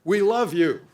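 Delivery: a voice in the crowd crying out we love you; crowd member calling out. Retold or imitated. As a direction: call it out from the crowd. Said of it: "cried out".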